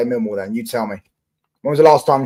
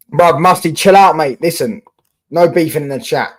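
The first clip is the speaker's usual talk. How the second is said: louder, higher call-out to a viewer; telling off; 5 semitones higher, 6 dB louder than usual. Real, not acted. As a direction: snap at Musty to calm down.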